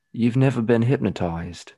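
slow, deliberate hypnotist impression; Marcus Lewis. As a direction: lightly imitate a hypnotist, drawing the words out. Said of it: "right with his tone of voice".

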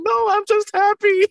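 very high, loud squeal of joy; overjoyed cry. Retold or imitated. Actor reassures alarmed wife, squealing with happiness. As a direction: re-enact being hysterically happy, voice way up.

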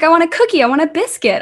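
put-on a small child insisting on a treat; insistent child.

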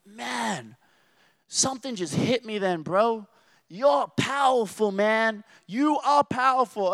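a hint of the man struck after prayer; amazed homeless man. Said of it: "he's like".

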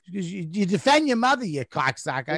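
hammed-up furious mom tearing into her son; pissed mom. Mother scolding son for insulting her, mock-angry. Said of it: "she was pissed".

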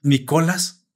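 "Nicolás" echoed with wrong middle stress, "ni-CO-las", rising; puzzled echo. Retold or imitated. Reacting to the robot narrator, puzzled echo. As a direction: query the odd "Nicolás", stress on CO. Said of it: "Y yo".

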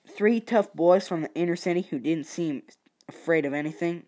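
lightly put-on Southern US accent; a hint of a Southern accent. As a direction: read it with a Southern twang. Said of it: "let's just do a southern accent".

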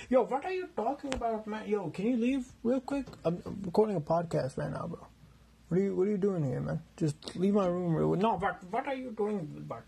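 intruding roommate. Acted. Second character barges in.

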